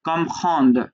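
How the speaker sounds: "comprendre" with the ending run together; joined final consonants. Shown as a demonstration. Teacher correcting a learner's ending, "comprendre" closed on joined consonants. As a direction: model "comprendre" stopping on the d, no full final syllable. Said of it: "একসাথে উচ্চারণটা হয়তো".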